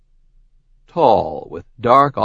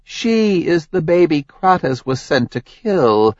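higher, accusing goddess voice; Hera's voice; 8 semitones higher than usual. Acted. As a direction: lay out his crimes coldly. Hera explains.

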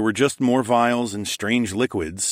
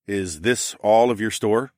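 demanding; 2 semitones higher, slower than usual. Acted. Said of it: "I demanded".

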